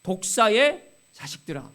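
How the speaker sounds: loud mock rebuke to a crowd; retold prophet's outcry; imitated cry. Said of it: "뭐라고 외쳤습니까?".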